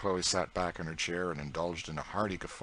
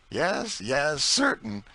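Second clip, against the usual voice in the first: put-on higher, louder proud old cook in broad dialect; Aunt Chloe's voice; 10 semitones higher, 8 dB louder, much slower than usual. A narrator's reading. Aunt Chloe boasting to young George, broad proud dialect. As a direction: boast with a scornful toss of the head.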